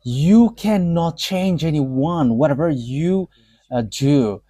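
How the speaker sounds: slow, even reading of the threat; slow, understated retelling of a cold threat; slow quoted warning. Retold or imitated. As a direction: read the warning slowly and flatly. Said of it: "the bad mouth that he sent".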